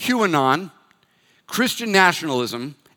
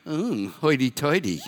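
laughing tease; 3 dB quieter than usual. Retold or imitated. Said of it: "she went".

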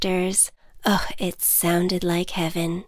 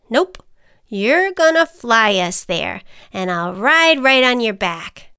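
ant voice; 2 semitones higher, 5 dB louder than usual. Acted. Ant character voice.

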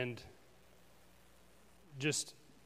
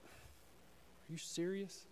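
stunned whisper; 5 semitones higher, 12 dB quieter, much slower than usual. Retold or imitated. Stunned thought as James calls.

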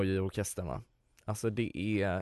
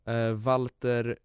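reading names with an Italian lilt; light Italian accent on a cast list; put-on Italian accent. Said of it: "Jag får slänga på en italiensk dialekt".

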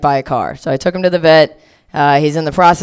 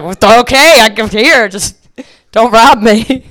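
higher, slowing wary voice; wary stranger; 6 semitones higher, 5 dB louder, slower than usual. Retold or imitated. Festival girl handing over a tampon, wary higher voice. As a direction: hand it over nervously. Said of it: "And she was like".

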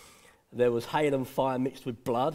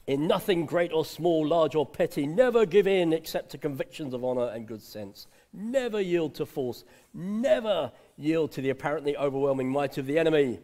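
lightly voiced Churchill; 2 semitones higher, 3 dB louder than usual. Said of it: "That's Winston Churchill".

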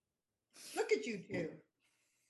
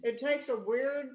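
words through laughter; laughing; 3 semitones higher, 3 dB louder than usual. Real, not acted. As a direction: laugh while saying it. Laughing while speaking.

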